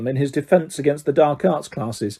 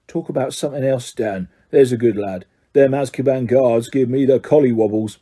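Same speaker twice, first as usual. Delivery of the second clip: uneasy Ern; 3 semitones lower than usual. Acted. Ernie shivers, asks to stop.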